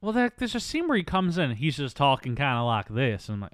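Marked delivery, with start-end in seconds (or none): 1.5-3.3 slow, lightly imitated Southern drawl; Southern accent. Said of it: "Oh, is he Southern?".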